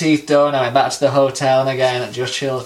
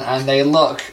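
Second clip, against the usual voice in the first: ordinary talk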